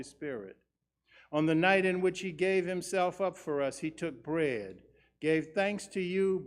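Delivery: solemn, measured prayer voice; liturgical prayer. Acted. Words of institution prayer.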